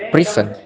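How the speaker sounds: "prison" with PRI punched, falling on "son"; PRI-son, weight on the first syllable; stress on first syllable. Shown as a demonstration. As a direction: hit PRI in "prison", let "son" fall. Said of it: "Stress on first syllable".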